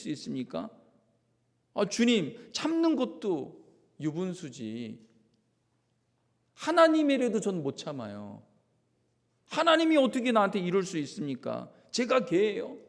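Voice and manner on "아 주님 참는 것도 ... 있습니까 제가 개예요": raised, louder voice protesting; indignant protest. Acted. Pastor voicing a hurt believer protesting to God, indignant. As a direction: fling the protest at the Lord. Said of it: "막 그냥 주님께 삿대질해도".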